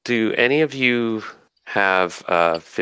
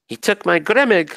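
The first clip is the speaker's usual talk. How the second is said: anguished; 11 semitones higher than usual. Acted. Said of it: "she says, in anguish".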